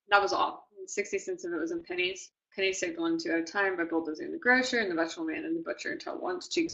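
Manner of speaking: flat, quiet, bored reading; monotone. Shown as a demonstration. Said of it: "I'm gonna read this in a very monotone voice first".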